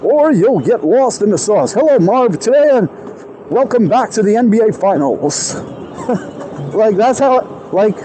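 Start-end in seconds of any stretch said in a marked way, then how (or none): 1.7-5.5 bright, punchy broadcast opener; lightly voiced TV sports host; sports commentator. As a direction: greet the audience like a sportscaster on air. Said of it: "professional commentary man".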